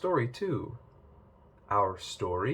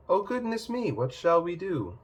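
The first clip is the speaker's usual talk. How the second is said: mock alarm; 6 semitones higher than usual. Goldilocks startled in dialogue.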